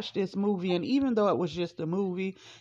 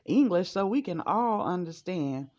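high, scolding mother voice; mother scolding the family at dinner for speaking French, high and sharp; 3 semitones higher than usual. Retold or imitated. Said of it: "She said".

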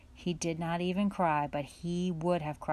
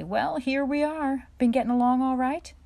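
higher, louder hearty father's greeting; cheerful father; 8 semitones higher, 8 dB louder than usual. A narrator's reading. Father greets the children on coming home, cheerful and higher. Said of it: "Father said cheerfully".

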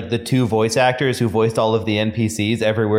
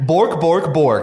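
mock Swedish chef; 3 semitones higher, much slower than usual. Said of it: "That's Swedish!".

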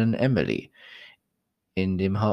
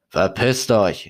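shouted; 4 dB louder, slower than usual. Acted. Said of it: "rief er".

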